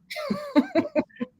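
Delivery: a quick burst of laughter at his own punchline; real laugh. Real, not acted. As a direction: genuine short laugh after the punchline.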